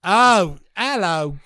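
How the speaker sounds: mock British greeting, loud opening; British accent. Co-host trying another pickup opener, mock British. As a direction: greet like a hammed-up British flirt. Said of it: "in the British accent".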